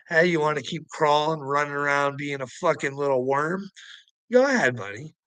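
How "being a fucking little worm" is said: normal talking voice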